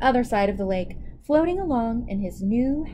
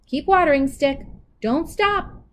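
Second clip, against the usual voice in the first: louder bossy order; commanding; 5 semitones higher, 4 dB louder than usual. Acted. Anansi orders the stick before napping, bossy. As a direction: tell the stick firmly.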